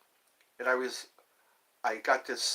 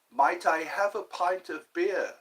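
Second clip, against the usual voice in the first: British phrasing; 3 semitones higher than usual. Retold or imitated. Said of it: "That's how you say it here in the U K".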